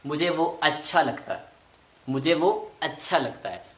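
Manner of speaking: अच्छा with a strong aspirated chh; teacher models अच्छा with breathy chh. Shown as a demonstration. Teacher demos अच्छा to students with aspirated chh. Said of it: "इसको convert करना है छ के अंदर".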